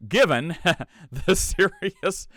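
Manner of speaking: high, slow, pompous reading; formal proclamation voice. Pretend. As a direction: read it like an old decree. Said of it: "what's the right voice of a guy who would read this".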